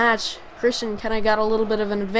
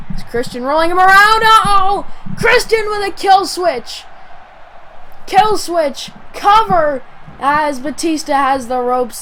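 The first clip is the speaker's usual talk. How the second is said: loud, high, excited play-by-play call; wrestling commentator; 6 semitones higher, 7 dB louder than usual. Acted. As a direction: call the big move at full pitch.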